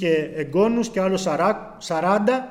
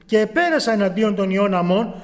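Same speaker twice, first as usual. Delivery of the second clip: solemn, measured reading of the Bible; scripture reading; 3 dB louder than usual. Acted. Preacher reading Judges aloud to the brethren, solemn. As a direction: read the verse out with gravity.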